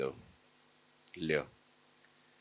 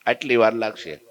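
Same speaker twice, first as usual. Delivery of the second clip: bellowing threat; 2 semitones higher than usual. Acted. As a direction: threaten to drown the town. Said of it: "બૂમ પાડીને બરાડા મારવા માંડ્યો". (ધમકીભરી બૂમ)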